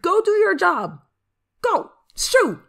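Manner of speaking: high, loud annoyed command; shooing. Acted. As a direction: shout a lazy bird away. Shooing away lazy crow.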